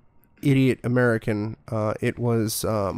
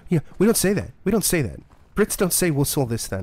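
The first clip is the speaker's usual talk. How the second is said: retold mild annoyance, higher pitched; annoyed; 6 semitones higher than usual. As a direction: imitate a coworker's irritated objection. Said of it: "Louis was kind of annoyed".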